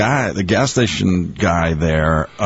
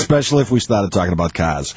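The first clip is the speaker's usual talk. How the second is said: light Boston accent with dropped R's; a touch of Dorchester Boston. Shown as a demonstration. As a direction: slip lightly into working-class Boston speech. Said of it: "in my Dorchester accent".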